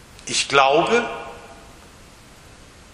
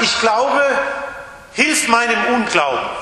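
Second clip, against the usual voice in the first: desperate cry; 8 semitones higher than usual. Acted. Father's desperate cry to Jesus.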